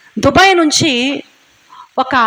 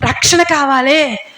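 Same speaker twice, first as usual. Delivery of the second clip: imitated wife weeping; 4 semitones higher than usual. Wife crying to God over her stubborn husband, slow sobbing wail. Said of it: "అని ఏడుస్తున్నావా?".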